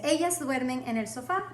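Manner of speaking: careful Spanish, rising on sofá; teacher models a Spanish line for the student, clear and careful; model sentence for repeating. Shown as a demonstration. Clear model sentence. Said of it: "let's repeat these really quick".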